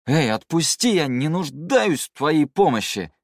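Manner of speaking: put-on high, loud drunken protest; loud demand. A narrator's reading. Drunk man being dragged away by the swordsman, loud protest. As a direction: demand it indignantly, drawing the words out. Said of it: "потребовал Циян, как ему казалось, громко и чётко".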